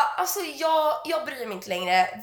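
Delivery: slow, dragged-out resignation; weary giving up. Retold or imitated. Worn-out daughter answering mamma, slow resignation. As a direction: drag the words out, past caring.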